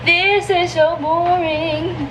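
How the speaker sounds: slow, high, drawn-out bored whine. Retold or imitated. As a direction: drag it out like you're dying of boredom. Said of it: "I'm like".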